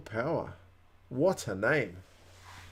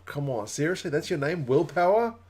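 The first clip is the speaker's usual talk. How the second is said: rising, higher-pitched disbelief; incredulous; 4 semitones higher than usual. Real, not acted. Streamer reacting to a driver called Will Power, incredulous.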